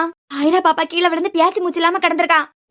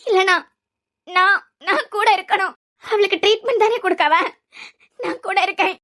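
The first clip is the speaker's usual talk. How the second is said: tearful pleading. Acted. Distressed woman begging to stay with child.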